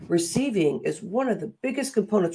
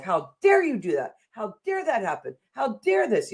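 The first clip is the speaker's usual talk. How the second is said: mock scolding; 6 semitones higher than usual. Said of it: "That's what I heard all my life".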